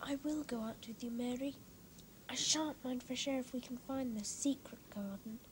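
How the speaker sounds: soft drowsy whisper. Acted. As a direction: murmur it half asleep. Sleepy boy whispers to Mary.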